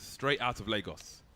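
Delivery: slow, mock Nigerian accent. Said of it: "your best Nigerian accent".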